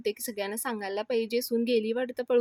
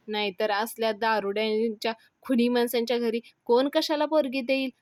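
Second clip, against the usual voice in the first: raised, indignant accusation; angry; 4 dB louder than usual. Acted. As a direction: rail against them with punched words. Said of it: "रागानं म्हणायला लागतो". (रागाने, आवाज चढवून)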